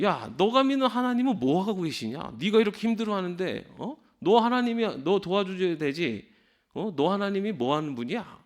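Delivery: lightly voiced sneer at a believer; mocking taunt. Preacher voicing the scoffers taunting the psalmist, mild mock jeer. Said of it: "비웃는 거예요".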